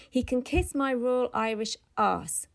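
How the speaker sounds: flung back loudly over the shoulder; loud cry. Acted. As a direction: toss the insult back as he walks off. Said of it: "cried loudly over his shoulder".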